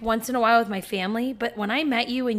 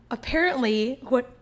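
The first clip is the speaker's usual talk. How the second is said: hiccuping while talking; words broken by hiccups; 2 semitones higher than usual. Real, not acted. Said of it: "I have the hiccups".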